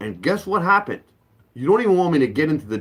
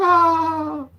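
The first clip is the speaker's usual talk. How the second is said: mock wail; 13 semitones higher than usual. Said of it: "And then I start crying".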